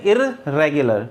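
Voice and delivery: इरेगुलर slowly with a rolled double r; wrong doubled r. Shown as a demonstration. Teacher imitates students saying it wrong, slowly. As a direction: drag out the r in इरेगुलर. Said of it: "तो रे दो बार बोल दिया".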